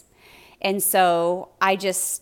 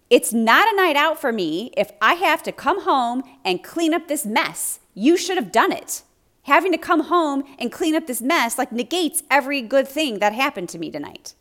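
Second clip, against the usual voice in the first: higher, louder reenacted outburst at the husband; angry retort; 6 semitones higher, 4 dB louder than usual. Wife snapping back at her husband over the mess, loud and high. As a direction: fire it back at him, high and hot. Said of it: "I was so angry, you guys".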